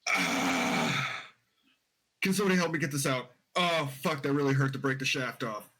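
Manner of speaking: hurting cowboy voice; Southern accent. Acted. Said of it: "all in Southern accent".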